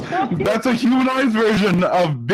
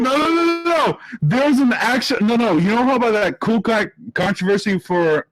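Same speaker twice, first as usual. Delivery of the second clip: raised, high-pitched protest; worked-up yelling; 7 semitones higher than usual. Real, not acted. Friend cutting in on the group about Cool Cat, worked-up yelling. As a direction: yell it out in a fluster, pitched high. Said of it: "okay, you're yelling".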